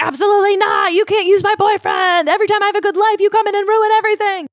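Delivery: high-pitched freak-out outburst; Minka. Retold or imitated. Daughter yells at her mom over boyfriend's money, high hysterical freak-out. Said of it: "Minka freaks out".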